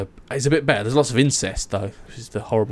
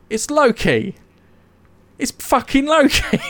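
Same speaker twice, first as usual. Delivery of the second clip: higher, exasperated hammed-up growl of a name; mock fury; 13 semitones higher, 3 dB louder than usual. Husband to bald wife, blaming the trickster, in mock fury. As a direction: play the outraged husband naming the culprit. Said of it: "he looks at her and goes".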